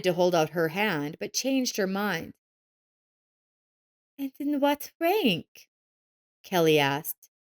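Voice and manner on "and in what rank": mocking girl. A narrator's reading. Kelly asks mockingly.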